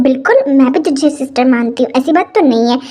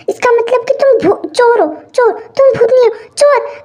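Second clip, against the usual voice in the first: high-pitched, startled accusation; alarmed accusation; 6 semitones higher than usual. Acted. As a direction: pitch jumps up in alarmed realization. Realizes intruder is a thief. (घबराकर ऊँची आवाज़ में आरोप)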